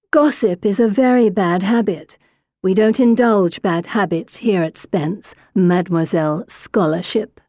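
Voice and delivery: Mademoiselle Scholarship sneered with nasty stress; nasty emphasis. A narrator's reading. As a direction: lean nastily on Mademoiselle Scholarship. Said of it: "giving the last two words a nasty emphasis".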